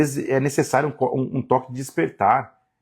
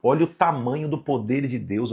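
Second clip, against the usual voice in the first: ordinary talk, nothing marked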